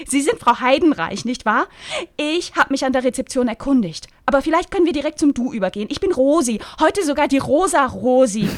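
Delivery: high, loud chirpy busybody; gushing Rosi. Acted. Rosi fussing over Lynn's sunburn, high and chirpy.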